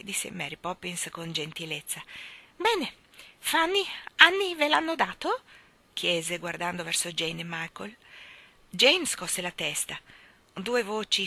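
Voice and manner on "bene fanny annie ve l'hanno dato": high, louder crone voice, demanding; sharp old mother. Acted. Old mother demands an answer from her daughters. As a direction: snap the question at the daughters.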